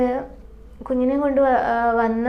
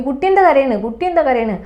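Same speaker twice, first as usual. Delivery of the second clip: mildly accusing, a bit louder on the first ask; accusing question; 2 semitones higher, 3 dB louder than usual. Retold or imitated. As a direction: retell the blaming question with a light edge. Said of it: "കുറ്റപ്പെടുത്തുന്ന പോലെ ഈ ചോദ്യം".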